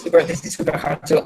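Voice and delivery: glitchy robotic connection; broken-up robot sound. Real, not acted. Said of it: "you sound like a robot".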